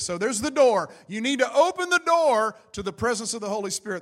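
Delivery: loud preacher's opening point; punchy, forceful sermon delivery; emphatic preaching. Real, not acted. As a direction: preach it out to the congregation.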